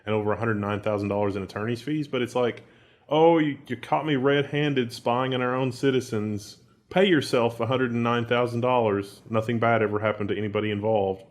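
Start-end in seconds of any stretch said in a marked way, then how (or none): 3.1-11.2 slowed, sarcastic mock admission; mock confession. City official caught spying on citizens, mock confession.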